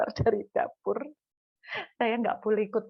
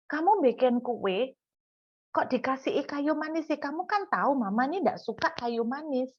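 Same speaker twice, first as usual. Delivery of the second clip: mock motherly scolding, pitched up; retold nagging; 4 semitones higher than usual. Mother objects to cinnamon in her child's cake, nagging. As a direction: grumble like a fussing mum. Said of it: "Saya tuh ngomel gini".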